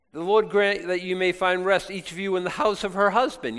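a mother-in-law begging them to go home; Naomi urging her daughters. Retold or imitated. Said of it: "so she's like".

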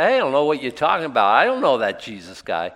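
quick, loud brush-off as Peter; Peter's denial. Retold or imitated. Peter denying Jesus.

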